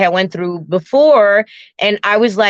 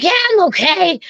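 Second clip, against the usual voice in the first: unconvincing okay; 9 semitones higher, faster than usual. Retold or imitated. Retold unconvincing reassurance while climbing.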